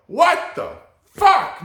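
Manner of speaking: very high, loud, drawn-out mock protest; outraged students' retort. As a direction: yell back slowly in hammed-up disbelief. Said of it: "And we go".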